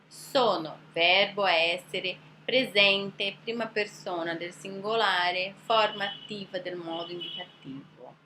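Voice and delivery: slow, droning recital of grammar terms; traditional grammar teacher. Retold or imitated. Teacher mimicking traditional schools parsing a sentence, plodding grammar-teacher recital. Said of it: "como que eles vão te ensinar".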